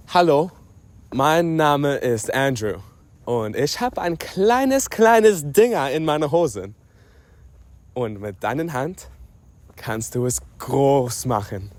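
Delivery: slow, drawn-out German recitation; reading a note aloud. Retold or imitated. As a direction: read the German note out deliberately, word by word. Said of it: "What was actually written was".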